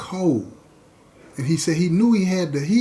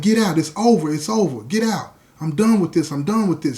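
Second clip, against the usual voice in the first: retold yelling. Man throwing girlfriend out at night, retold as a mild yell. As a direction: fire off short, repeated orders, half-shouted. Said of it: "He's yelling at her".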